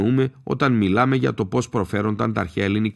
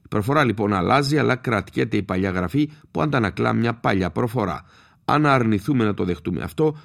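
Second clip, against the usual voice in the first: normal talking voice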